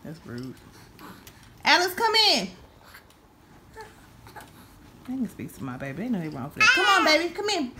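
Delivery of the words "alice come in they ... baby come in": high pet voice. Real, not acted. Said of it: "I know my voice is annoying".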